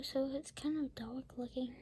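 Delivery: soft unvoiced whisper. Real, not acted. Looking at the dark page with the child, whispering. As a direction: hush it with a little awe.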